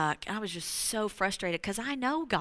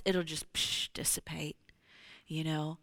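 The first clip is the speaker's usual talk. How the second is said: whisper; 4 semitones lower, 5 dB quieter than usual. Acted. Peace dissolving heaviness.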